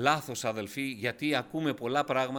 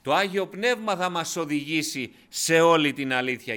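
ordinary talk

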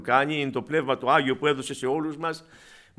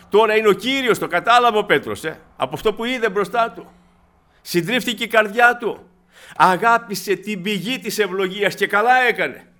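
rising preaching; 4 semitones higher, 4 dB louder than usual. Acted. Preacher builds intensity.

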